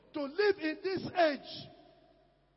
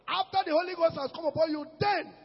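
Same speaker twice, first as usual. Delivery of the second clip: urgent preaching; 2 semitones higher than usual. Acted. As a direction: drive it at them quickly. Fast preaching shout.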